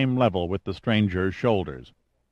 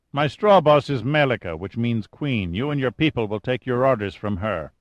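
calm, self-assured commander introducing himself; lightly voiced cool chief engineer; 2 semitones higher than usual. O'Banion voiced by narrator.

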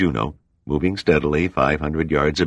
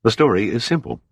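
evenly; 7 semitones higher than usual. A narrator's reading. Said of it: "Pitt said evenly".

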